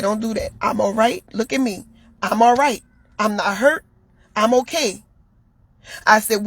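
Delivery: imitating herself calming him, pitch held low; calm reassurance. Woman talking her partner down after a crash, calm reassurance.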